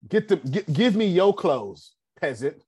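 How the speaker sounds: mock-royal order, slowing down; imperious queen. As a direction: demand it like a haughty queen, half joking. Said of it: "So this is what she said".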